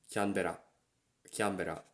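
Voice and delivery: Canberra as Kyanbera; Japanese pronunciation. Shown as a demonstration. Teaching the capital's Japanese name. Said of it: "And the capital is".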